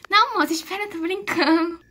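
put-on high childish voice on the phone; high, chirpy kid voice; little girl voice. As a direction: play a cheerful little girl answering a call. Doll voice continues.

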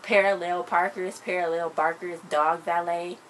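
"Parallel Barkers, dog valet" slow and punched; insistent repetition. Shown as a demonstration. Repeats punchline to make Mila understand.

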